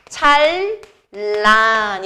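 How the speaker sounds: "찰란" drawn out in two slow syllables; teacher slowly modelling "찰란", l-l in the middle; pronunciation demo. Shown as a demonstration. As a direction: sound out "찰란" with a long double l. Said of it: "이렇게 읽지".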